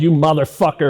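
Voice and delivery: loud but contained curse; retold yell. Victim falling in a fight curses his attacker, mild retold yell. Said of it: "I yelled".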